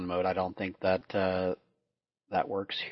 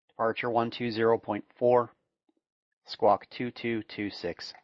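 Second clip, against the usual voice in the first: steady radio clearance readout; air traffic control; slower than usual. Acted. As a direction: read it like a tower controller.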